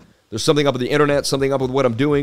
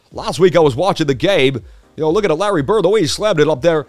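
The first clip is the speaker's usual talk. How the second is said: Marv Albert sportscaster. Acted. Streamer jokes to chat in a mock sportscaster call. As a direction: call it like a courtside announcer having fun. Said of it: "I could put it on a little bit like Marv Albert".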